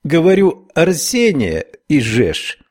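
slow, heavy Irish brogue; Irish accent. Acted. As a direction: repeat it in a strong Irish accent. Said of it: "повторила ... с сильным ирландским акцентом". (сильный ирландский акцент)

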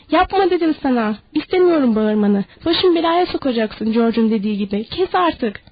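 frightened anger boiling over; angry. Acted. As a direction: bark the orders at her. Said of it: "Lenny bu kez iyice öfkelendi".

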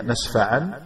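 "نسفعن" ending on an audible n, nasfa'an; final n sounded. Shown as a demonstration. Teacher showing the unwritten noon is pronounced, "نسفعن" with final n sounded. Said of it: "نطق بها".

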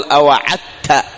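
أوعدت said with د in place of ظ; wrong merged reading. Shown as a demonstration. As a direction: swap the ظ of أوعظت for a د. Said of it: "فيدغم فيقول".

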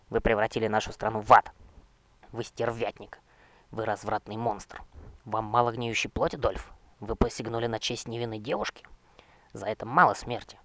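loud, outraged accusing shouts; furious denunciation. Acted. Young knight shouting his accusations at the necromancer king, outraged.

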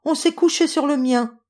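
mama bear's high, loud complaint; high-pitched mama bear voice; medium voice. A narrator's reading. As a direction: exclaim as a middle-sized bear. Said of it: "de sa moyenne voix".

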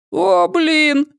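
very high, startled exclamation; whistling exclamation. Acted. High-voiced thug startled, whistling exclamation. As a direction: blurt it out startled. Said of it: "присвистнул головорез".

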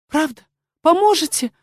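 hopeful. Acted. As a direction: grab at a last hope. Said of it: "с надеждой спросила горничная".

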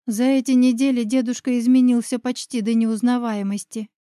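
plain reading voice

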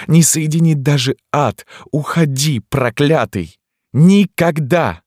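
furious screaming. A narrator's reading. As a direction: drive him away like an enraged tigress. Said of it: "как разъярённая тигрица". (цыганка в ярости гонит священника)

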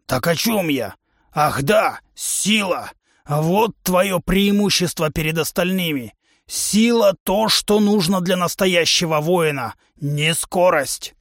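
a brash trainer lecturing his recruit; a touch of a boastful warrior coach; hint of a gruff trainer. Trainer humanoid voiced.

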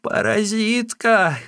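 old Wang cursing the sister-in-law in a high, put-on voice; old woman shouting. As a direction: screech the insult in a crone voice. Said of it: "крикнула старая Ван".

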